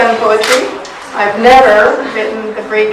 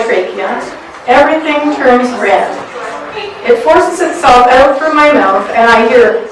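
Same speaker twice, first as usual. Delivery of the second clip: measured, deliberate poetry reading; spoken word performance; poem reading. Acted. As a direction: read it like a confessional poem to an audience. Reads her own poem aloud.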